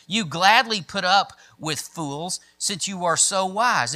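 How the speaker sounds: dramatic Bible reading; emphatic scripture reading. Acted. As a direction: read Paul's boast with rhetorical punch. Reads Paul's boasting aloud.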